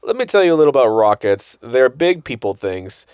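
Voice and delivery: lightly voiced patient dad, slow; lecturing dad. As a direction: explain it slowly like a clueless dad. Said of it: "it sounds like me trying to talk to my son".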